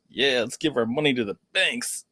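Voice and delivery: mock-agreeing, then a disgusted ugh; sarcastic. Real, not acted. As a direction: feign going along, end in a groan of distaste. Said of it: "you hear my sarcasm in that".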